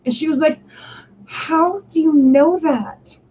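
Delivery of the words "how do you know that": mock amazed girl. Classmate amazed at her recall.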